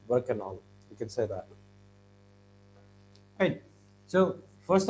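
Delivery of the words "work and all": low "work-an-all", D dropped; linked. Shown as a demonstration. Teacher shows what you can say, linked "work and all". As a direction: let "and" melt into "all". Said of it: "We don't wanna do that".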